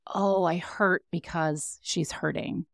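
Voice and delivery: mock hurt. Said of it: "but you don't go".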